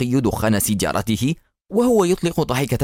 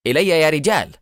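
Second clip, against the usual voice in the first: higher-pitched rallying cry; firm, raised command; resolute call; 5 semitones higher than usual. A narrator's reading. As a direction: summon your men decisively. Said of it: "وفي حزم وحسم رفع مدفعه الآلي وهتف".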